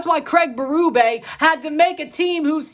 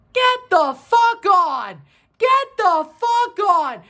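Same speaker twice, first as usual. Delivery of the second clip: angry rant; 3 semitones higher, 4 dB louder, slower than usual. Real, not acted. Ranting at the team.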